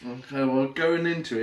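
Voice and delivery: eating between words; talking while chewing. Real, not acted. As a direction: mouth partly full. Seen 0: Holds pizza slice, bites near +0.6, keeps eating while talking.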